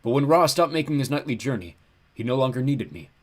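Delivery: big, mournful ram-god lament; like a huge lost sheep; horribly depressed. A narrator's reading. Ram god abandoned at the gates, depressed. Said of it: "He sounded horribly depressed".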